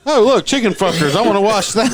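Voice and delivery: mock eager interest. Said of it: "I just like".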